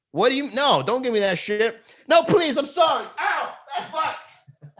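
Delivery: high, loud panicked begging; mock pleading. Comic playing a fan begging him, high panicked squeal. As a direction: squeal for mercy then yelp in pain.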